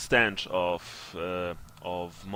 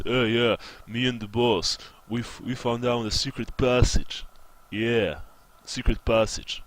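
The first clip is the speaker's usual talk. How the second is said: lightly voiced henchman, a touch louder; a hint of an eager sidekick; loyal henchman; 3 dB louder than usual. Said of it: "he says".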